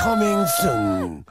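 low, very slow trailer voice; movie trailer voice. Acted. Trailer tagline.

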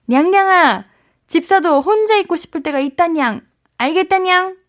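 sweet playful nya-ending voice; cutesy nya speak. Acted. Reads listener's playful cat-speak message.

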